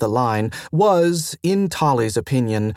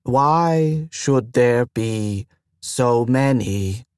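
very slow, rising alarm; words stretched out in mild panic; much slower than usual. Acted. Station AI hearing of visitors, slow mild panic. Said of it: "There was panic in the slow voice".

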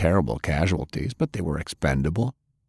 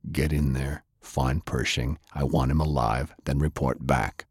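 low, quiet orders from a ruthless leader; low, menacing boss sending off his scout; cold commander; 4 semitones lower, 4 dB quieter than usual. Acted. Madi orders his traveler.

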